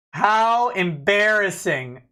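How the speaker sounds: slow, drawn-out mocking "How embarrassing"; mock pity. Streamer taunting a debtor over missed payments, slow mock pity. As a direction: savor it like a taunt.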